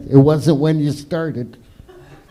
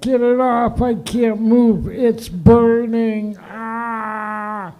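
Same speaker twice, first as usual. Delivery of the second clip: high, slow panicky cry of pain; panicked girlfriend; 8 semitones higher, much slower than usual. Retold or imitated. Imitating an ex-girlfriend to the audience, high and panicky. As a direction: act out a girl in mock agony. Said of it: "It's like".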